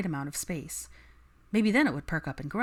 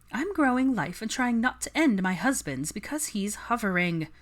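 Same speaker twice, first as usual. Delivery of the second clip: wry complaint; 5 semitones higher than usual. Acted. Daphne complaining humorously.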